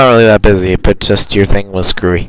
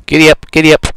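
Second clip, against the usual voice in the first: higher, playful giddy-up; giddy up call; 6 semitones higher than usual. Pretend. Urging the game horse on, playful call. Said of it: "let's get on the horse".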